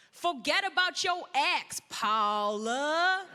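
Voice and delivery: lightly done sassy lady voice; sassy black lady. Pretend. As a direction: give your girlfriend tough advice with attitude. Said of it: "I wanna sound like a sassy black lady".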